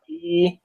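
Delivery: E with lips pulled back and jaw nearly closed; lips spread back. Shown as a demonstration. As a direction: hold a spread, narrow E. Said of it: "your jaws are not open very much".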